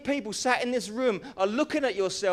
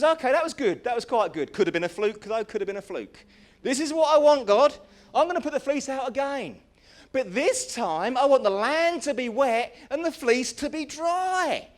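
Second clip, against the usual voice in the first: eager bargaining; 6 semitones higher, 6 dB louder than usual. Acted. Gideon bargaining with God.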